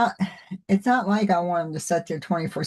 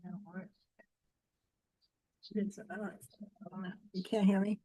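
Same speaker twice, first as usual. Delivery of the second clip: faint and distant, off-mic; far from mic; 14 dB quieter than usual. Real, not acted. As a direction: voice lost far from the microphone. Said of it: "it just sounds like you're far away".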